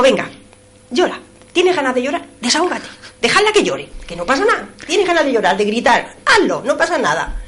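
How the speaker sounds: voz alta y animada, animando a desahogarse; anímala a llorar, más agudo y con risa al final; ánimo cariñoso para llorar. Retold or imitated. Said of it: "yo a veces digo". (ánimo animado y cariñoso, voz más aguda)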